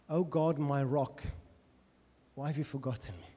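slowed, questioning prayer; lingering prayer; slow, pondering prayer. Shown as a demonstration. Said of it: "Just want you to pause there".

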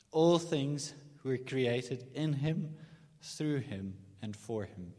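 slow and deliberate, each phrase landed; slow, emphatic scripture phrase; slow, weighty reading. Shown as a demonstration. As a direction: read it slowly like a creed. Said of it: "So just say that with me".

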